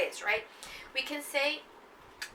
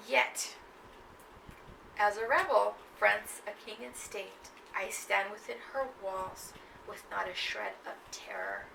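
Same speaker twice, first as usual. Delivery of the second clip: slow, sinking poem recital; poem reading; 2 semitones lower, slower than usual. Acted. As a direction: read it steadily, fading to the end. Reads next poem stanza.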